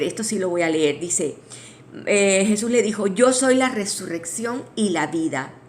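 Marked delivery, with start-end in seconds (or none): 3.1-5.5 scripture reading. Shown as a demonstration. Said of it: "y lo voy a leer".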